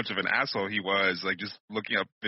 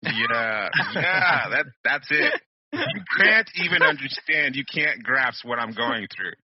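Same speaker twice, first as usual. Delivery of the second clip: dramatic martyr; 3 semitones higher, 5 dB louder than usual. Acted. Mock martyr rant.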